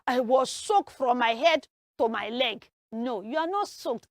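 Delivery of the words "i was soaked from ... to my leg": exclaiming. Acted.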